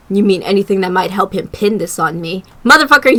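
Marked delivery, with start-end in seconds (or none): 2.6-3.2 loud cursed outburst at the screen; real irritation, shouted curse; angry outburst. Real, not acted. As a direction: swear at him, fired up. Streamer yells at suspect character.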